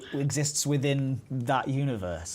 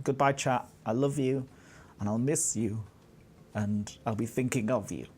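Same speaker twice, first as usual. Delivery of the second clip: mock-tender farewell; 3 semitones lower than usual. Host parting from chat before quiz, mock tender. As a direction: bid a fond goodbye with pauses between phrases.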